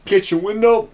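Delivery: breathless tour narration; out of breath. Real, not acted. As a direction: say it short of breath. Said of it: "catch my breath".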